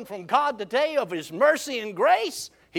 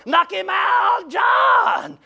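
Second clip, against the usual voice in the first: long, high, loud cheer from below; storyteller imitating shouting hunters; acted hollering; 7 semitones higher, 6 dB louder, much slower than usual. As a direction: holler it up the tree, stretching each word. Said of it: "And they're hollering".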